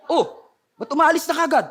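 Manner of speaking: a guard confused that the army just left, with a laugh; puzzled guard. Retold or imitated. Jericho guard asking why the army left, amused surprise.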